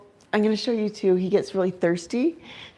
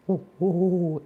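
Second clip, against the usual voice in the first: owl hoots; 3 dB quieter than usual. Shown as a demonstration. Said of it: "it calms him".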